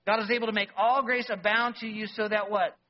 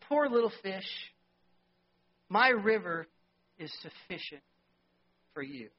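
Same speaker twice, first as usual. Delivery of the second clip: gentle river voice. Acted. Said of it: "Father Sacramento River says to him".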